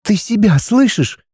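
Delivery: wife confronting her husband, indignant; wife Arani, rising anger. A narrator's reading. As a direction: press him harder with each question. Wife Arani voiced higher.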